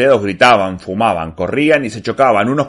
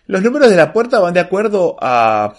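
higher, gentle grandmotherly explaining; sweet serene grandmother; 8 semitones higher than usual. A narrator's reading. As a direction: explain sweetly, trailing into hesitation. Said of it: "una voz dulce, serena, como de abuela".

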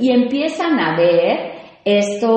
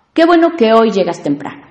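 louder, glad congratulating voice; 3 semitones higher, 6 dB louder, faster than usual. Shown as a demonstration. Host shows a real compliment, cheerful. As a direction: sound truly pleased they came early. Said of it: "estoy felicitando".

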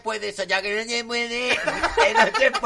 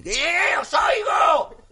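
higher, loud, drawn-out call; warning royal yell; 7 semitones higher, 3 dB louder, much slower than usual. Pretend. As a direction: let the servants know you hear them. Reina grita al personal. (reina avisando a gritos a los criados)

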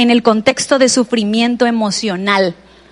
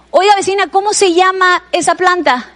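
higher, chirpy neighbour calling over the fence; nosy neighbour; 5 semitones higher than usual. Retold or imitated. Neighbour calling to the woman next door, lightly mock sing-song. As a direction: hail the neighbour brightly, a touch hammed-up. One neighbour questioning another.

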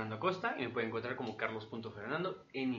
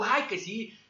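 half-asleep retort; 9 semitones higher, 5 dB louder, slower than usual. Retold or imitated. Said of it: "tú".

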